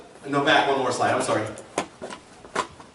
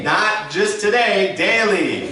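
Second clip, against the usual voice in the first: slow call to repeat; much slower than usual. Shown as a demonstration. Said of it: "Turn to your neighbor and say".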